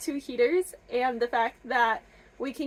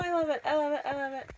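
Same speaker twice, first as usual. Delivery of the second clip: winding-down gushing; 2 semitones higher, faster than usual. Real, not acted. Winding down after squealing over book.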